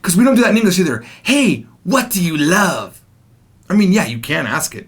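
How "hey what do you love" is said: awkward phrasing. Shown as a demonstration. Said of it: "but it's awkward".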